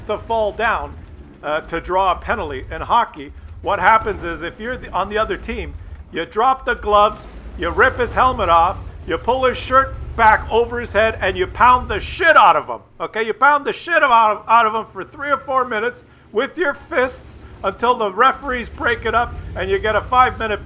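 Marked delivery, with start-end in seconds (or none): 6.1-14.6 loud rant. Real, not acted. Hockey fight rant.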